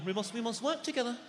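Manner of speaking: a quiet, posh-leaning politician read in a slightly put-on voice; half-hearted prime minister at the lectern; lightly voiced Tory speech; David Cameron impression. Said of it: "David Cameron".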